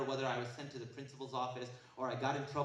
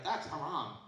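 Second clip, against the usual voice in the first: 1 laughing mock; slower than usual. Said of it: "and be like".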